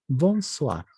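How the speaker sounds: bonsoir with OI said as "ua". Shown as a demonstration. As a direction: say bonsoir with a "wa" ending. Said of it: "la O I se vuelve ua". (bonsoir con OI pronunciado "ua")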